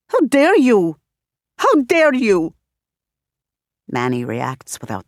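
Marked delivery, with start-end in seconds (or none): 0.1-1.0 HOW hit hard, falling; first furious cry; outraged. Acted. Repeated outraged question. 1.6-2.5 HOW hit hard, falling, more strained; second furious cry; outraged again. Acted. Repeated outraged question.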